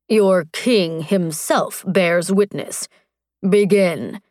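slow, firm warrior command, lightly voiced. Strax commands the frightened magistrate, slow firm warrior voice. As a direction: order it calmly, like a hint of a warlord.

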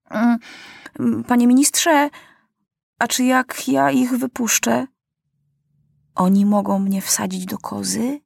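put-on high, worried childish question; King Maciuś asking the minister if he'd be jailed; boy king's voice. A narrator's reading. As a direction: ask like a wary boy.

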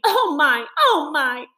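mild whimper. A narrator's reading. Mole whimpering over his leg.

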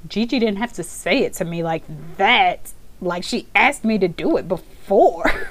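lightly voiced hurt little boy; a hint of a sulking toddler; aggrieved child. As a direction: complain like a wounded kid. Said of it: "he's like".

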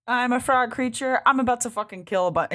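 mock indignation. Abe hitting back at Black Flame, mock indignant.

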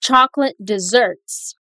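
I love, chocolate desserts, slow with long pauses; slow, chunked repeat. Shown as a demonstration. Teacher leads the repeat slowly in chunks.

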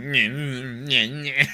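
mock grumbling nonsense noises; imitated muttering. Outnumbered friend muttering in the back seat, imitated grumble. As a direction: mimic someone mumbling sulky gibberish. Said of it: "like, mummering shit".

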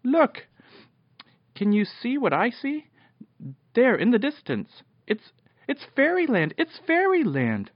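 very high, thrilled cry; excited shout. A narrator's reading. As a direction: shout out a joyful sighting. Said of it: "suddenly he gave a shout".

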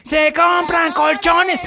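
stretched, high street-vendor loudspeaker call; crackly looped vendor recording. Retold or imitated. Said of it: "Va a estar gritando en mi hocico".

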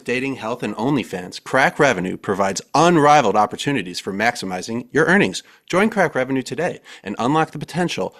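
punchy sales-pitch read, key words lifted. Acted. Host reading co-hosts an AI-written sponsor plug, ad read. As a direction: sell it like a sponsor spot. Resumes the ad after interruption.

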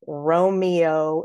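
"Romeo" drawn out as ro-mee-oh; unelided "Romeo", RO-mi-o; all three syllables. Shown as a demonstration. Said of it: "say all three syllables".

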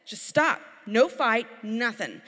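imitating a dad's firm command to a crying toddler. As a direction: shut the crying down, firmly. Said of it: "And he would go".

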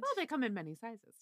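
dry straight-faced delivery; deadpan. Acted. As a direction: say it totally deadpan.

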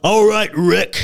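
a big menacing hello to Rick; Carl Winslow greeting. Retold or imitated. Buff Carl Winslow greets Rick in a loud put-on voice. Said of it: "And he's like".

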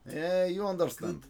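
mock Australian accent; hammed-up Australian delivery. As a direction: put on a comic Aussie accent. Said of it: "It certainly was my Australian".

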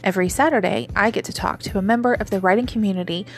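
upbeat, rehearsed show-intro read; slightly lifted, polished host read; scripted podcast intro. Acted. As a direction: welcome listeners like a practised podcast host. Pre-recorded scripted podcast intro.

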